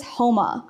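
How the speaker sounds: Houma said "HOE-muh"; local pronunciation. Shown as a demonstration. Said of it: "pronounce those the correct way".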